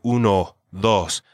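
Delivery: "Uno, dos" with a pure Spanish O. Shown as a demonstration. Teacher showing Spanish O to learners, pure O in "Uno, dos". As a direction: keep the O in "Uno, dos" one unglided vowel. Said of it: "use the Spanish O".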